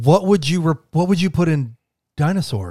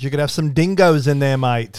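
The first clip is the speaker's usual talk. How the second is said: put-on a jokey Australian accent, louder on dingoes; 4 dB louder than usual. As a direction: play a mock Aussie with the mate. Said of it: "Please stop making me do this accent".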